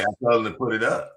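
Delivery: mocking impression. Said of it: "He was like".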